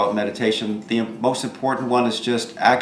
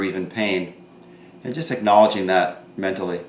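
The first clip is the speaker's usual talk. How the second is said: calm meditation guide with long pauses; guided meditation; 4 dB quieter than usual. Real, not acted. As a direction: guide listeners gently inward, pausing between thoughts.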